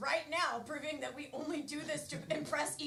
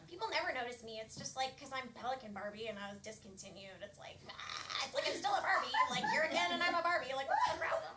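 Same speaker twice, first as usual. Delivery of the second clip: a hint of hurt, mumbled self-pity; mopey Pelican Barbie; 3 semitones lower than usual. Sad discontinued Pelican Barbie laments.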